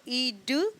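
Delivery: each letter sound said apart. Shown as a demonstration. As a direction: split the word into its separate sounds. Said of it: "रीड, र".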